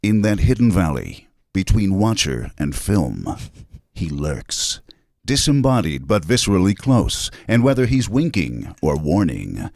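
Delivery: slow, ominous trailer narration; lightly voiced brooding trailer read; horror trailer voice. Shown as a demonstration. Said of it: "Go with your big voice".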